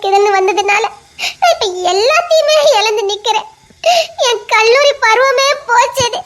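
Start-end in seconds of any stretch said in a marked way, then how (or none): 1.4-6.2 a student mourning her lost college days; tearful lament. Acted. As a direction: choke up over everything lost. Girl laments lost college life.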